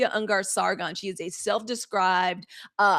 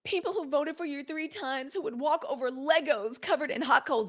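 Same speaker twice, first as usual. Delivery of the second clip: higher, lightly imitating her dramatic appeal; mock pundit; 5 semitones higher than usual. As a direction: ham up her earnest plea a little. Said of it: "this is how she said it too".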